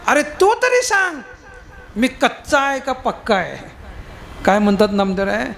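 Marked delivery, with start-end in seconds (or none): 0.1-3.6 pleading question. Acted. Namdev pleads with God.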